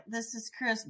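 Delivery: retold greeting broken by a burp; phone greeting running into a mock belch; burp interrupting. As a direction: imitate a greeting cut off by a huge burp. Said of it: "most obnoxious burp that ever came".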